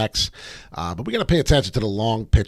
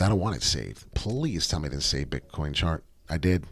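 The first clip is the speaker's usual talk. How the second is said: ordinary delivery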